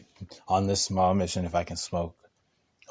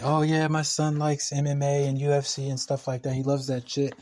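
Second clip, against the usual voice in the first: lightly voiced chatty mom, higher pitch; 5 semitones higher than usual. Landlord telling tenant about her son, lightly voiced chatty mom. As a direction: relay a mom's casual boast in a higher voice.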